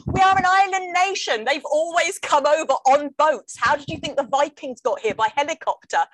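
high, incredulous protest easing off; exasperated retort. Acted. Answering a guy in a cafe about boats, exasperated. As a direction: argue back, indignant, starting high and loud.

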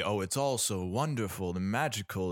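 lightly mocking wide-eyed amazement; Benoit Blanc. Podcaster mimicking a detective who seems amazed, mild mock wonder. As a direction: gently imitate someone enchanted by everything. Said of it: "being this amazed by everything".

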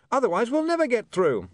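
high, desperate yell; screamed. A narrator's reading. William pleads with Otto amid barking, high scream. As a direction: scream a plea over the din. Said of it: "he screamed".

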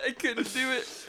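high-pitched, cracking up; laughing. Real, not acted. Co-host giving up on the impression, laughing. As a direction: break character into laughter.

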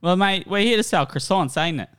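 put-on British accent. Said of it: "British, English, general U K".

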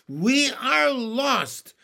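high slow wail of despair; ladybug voice. Acted. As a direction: wail it as all is lost. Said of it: "cried the ladybug".

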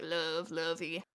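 low, slow, soft endearment; mild narrator imitation. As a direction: lightly imitate the narrator's pet names, drawn out. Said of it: "he would do all the little".

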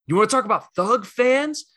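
imitating an indignant fan, high-pitched; passionate outburst. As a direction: throw it out as a heated challenge. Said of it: "let his Philly passion jump out".

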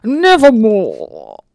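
very slow, loud dramatic; military officer. Acted. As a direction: stretch it out grandly. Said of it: "one more time for me".

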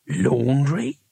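incredulous character voice rising at the end; mock outraged shout, no real volume. A narrator's reading. Cohen finding only washing inside the luggage, shouting. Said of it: "he shouted".

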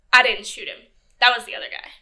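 loudly protesting innocence in his voice; a hammed-up loud denial; loud mock protest. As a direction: protest it loudly, pointing the blame away. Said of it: "he was like".

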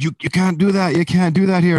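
high, loud mock guard scolding; stern guard. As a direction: bark it like a big bouncer laying down the law. Security guard scolding crowd surfer.

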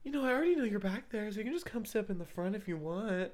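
seductive voice. Retold or imitated. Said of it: "in a seductive voice too".

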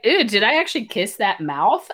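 mock-grossed-out quote through a laugh; laughing as she plays the heroine's revulsion; laughing disgust. Retelling the heroine's regret about the kiss, laughing.

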